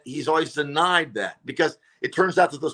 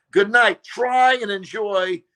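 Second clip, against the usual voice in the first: parting jab; 4 semitones higher than usual. Retold or imitated. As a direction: throw the insult out as you leave. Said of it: "And I said".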